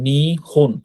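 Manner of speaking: নিহন split into two separate parts, নি and হন; নিহন syllable by syllable. Shown as a demonstration. Teacher breaking down the word for Japan, নিহন said in two separate syllables. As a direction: sound out নিহন with a break after নি. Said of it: "এটা just হুন উচ্চারণ".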